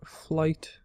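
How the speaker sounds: flight whispered under breath; whispering. Real, not acted. Whispered while reading list.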